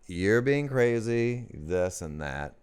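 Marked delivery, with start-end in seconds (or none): 0.1-1.5 slightly higher, slow drawn-out mimicry; light impression of the host; imitating the host. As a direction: stretch it out, lightly mimicking her. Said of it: "you're like".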